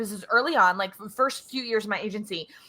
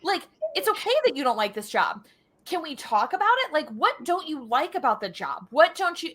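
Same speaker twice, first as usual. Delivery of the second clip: reassuring; 5 semitones higher than usual. Retold or imitated. Boss reassures unhappy employee.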